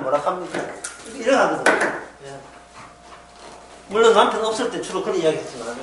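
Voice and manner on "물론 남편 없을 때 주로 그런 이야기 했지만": ordinary talk, nothing marked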